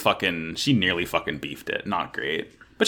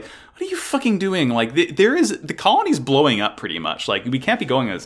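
panicked yelling; 5 semitones higher than usual. Retold or imitated. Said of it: "El is like".

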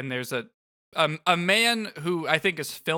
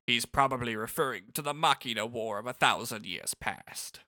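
put-on old man voice; 6 semitones lower, 6 dB quieter than usual. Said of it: "I'm not doing the right old man voice for him".

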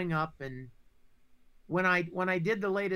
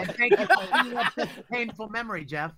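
sarcastic laughing thanks; 5 semitones higher, 6 dB louder, faster than usual. Pretend. Joking about losing Star Search.

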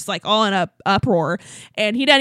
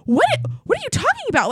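mock stunned, climbing high at the end; baffled "what", jaw hanging; mouth-ajar disbelief; 11 semitones higher than usual. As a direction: imitate someone dumbfounded. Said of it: "like, mouth ajar, just like".

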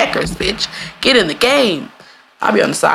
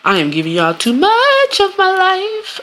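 dramatic exasperation; 14 semitones higher, slower than usual. Real, not acted. Exasperated aside.

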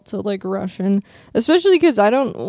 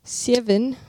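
one-word Australian accent demo; Australian-style "Seven"; 2 semitones higher, 3 dB quieter than usual. Shown as a demonstration. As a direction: try the word in an Aussie accent. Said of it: "if you wanna do an Australian accent".

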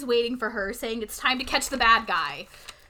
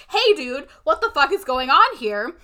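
slightly raised, louder retold panic; mock freak-out; 3 semitones higher, 6 dB louder than usual. Vicky to Zach as the boat speeds at another, mock freak-out. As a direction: act out a mild freak-out. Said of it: "freaking out".

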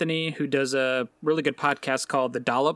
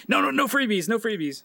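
high mock shooing; 8 semitones higher than usual. Mocking Tobias shooing kids.

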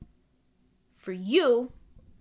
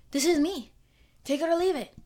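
defiant declaration; 6 semitones higher than usual. Real, not acted. Declaring herself to viewers.

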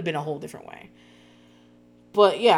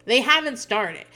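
slow, louder insistence again; retold scream, repeated; 5 semitones higher, 4 dB louder, slower than usual. Daughter repeating to her dad, slow and pressing. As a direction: hammer the point home. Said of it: "she's starting to scream".

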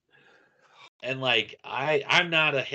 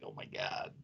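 breathless oh my god; 14 dB quieter than usual. Retold or imitated. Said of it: "I'm like".

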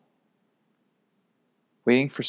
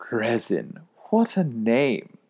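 growled; much slower than usual. Acted. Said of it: "Declan growled".

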